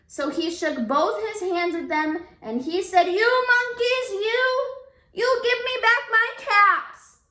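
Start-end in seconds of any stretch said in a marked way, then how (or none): 3.1-7.2 high, loud shaking-fist scold; angry peddler. A narrator's reading. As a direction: scold the thieving monkeys. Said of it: "This made the peddler angry".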